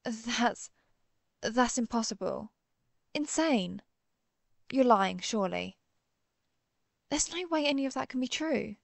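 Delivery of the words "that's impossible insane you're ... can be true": stunned denial, pitch jumping and dropping; shocked disbelief. Acted. Hunter rejecting the doctor's impossible news, shocked disbelief. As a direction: refuse to believe it, with sudden bursts of force.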